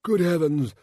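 loud, high, booming-merry king; overbearingly cheerful monarch, drawn out; hugely jovial king. A narrator's reading. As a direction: exclaim it slowly with a huge royal smile. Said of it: "smiling hugely".

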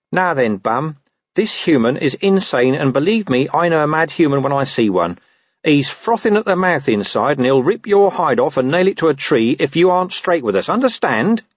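lightly voiced mock-menacing mutt; a hint of a tough dog leaning on a prisoner; dog threatening a wolf. Gaspode bullies the captured wolf, mock-menacing dog. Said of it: "spoke in canine".

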